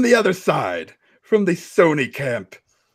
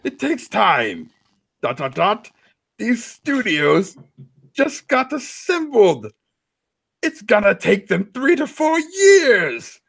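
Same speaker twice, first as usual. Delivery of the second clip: dramatic reading; 6 semitones higher than usual. Acted. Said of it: "dramatic readings of Console Warrior tweets".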